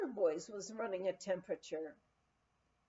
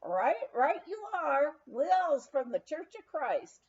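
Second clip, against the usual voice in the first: Texan drawl; 5 semitones higher, 5 dB louder than usual. Retold or imitated. Texan spokesman explains.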